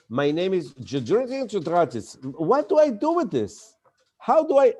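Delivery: mock panic over an unpronounceable name; a lightly hammed-up speaker losing his way on stage; flustered stammer. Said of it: "when you go on stage and you say".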